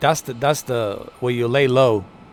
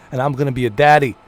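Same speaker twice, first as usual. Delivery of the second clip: mock movie threat, louder and quicker; Liam Neeson; 6 dB louder, faster than usual. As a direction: lightly parody an action hero, pushing the volume. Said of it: "Liam Neeson is the best".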